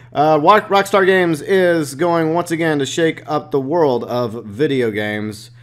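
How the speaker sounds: ordinary talk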